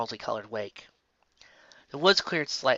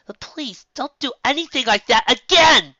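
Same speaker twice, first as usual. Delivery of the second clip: scolding; 12 semitones higher, 8 dB louder than usual. Acted. Twilight scolding.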